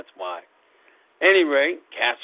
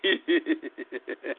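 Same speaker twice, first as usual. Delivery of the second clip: unhinged villain laugh; 6 dB quieter than usual. Acted. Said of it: "that's my little maniacal laugh".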